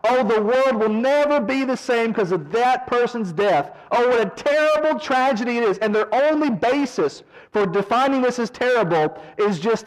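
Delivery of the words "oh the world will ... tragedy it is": mock lament. Preacher mimicking fans mourning a celebrity, mock lament. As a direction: overblown mock grief, pitched higher.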